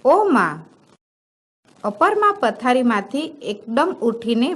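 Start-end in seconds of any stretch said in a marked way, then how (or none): 0.0-0.6 put-on a child crying out for his mother in the night; child's cry. A narrator's reading. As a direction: call out "ઓ મા!" as a sick child's scream, lightly done. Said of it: "અને બાળકે ચીસ પાડી".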